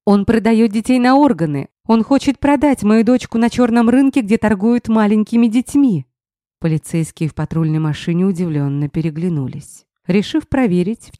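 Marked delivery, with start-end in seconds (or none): 0.1-6.1 frantic accusation. Acted. She keeps screaming accusations.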